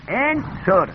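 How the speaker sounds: انصر opening on a clear "en-", then "-sor"; kasra on the hamza. Shown as a demonstration. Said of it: "همزه را کسره بدیم". (انصر با کسرهٔ همزه)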